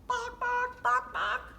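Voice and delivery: high clucking hen sounds; chicken clucking. Acted.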